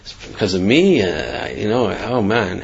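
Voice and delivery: low, subdued stammer of regret; softly voiced remorse; feeling terrible. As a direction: retell a stunned apology, quietly and haltingly. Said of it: "he felt terrible".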